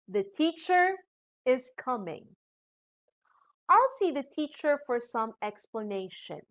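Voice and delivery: "coming" and "explanation" step down at the end; falling statement. Shown as a demonstration. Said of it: "for giving statements".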